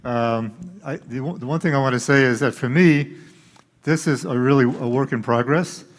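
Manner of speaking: speaking through a face mask; muffled behind a mask. Real, not acted. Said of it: "Can you hear me through the mask?".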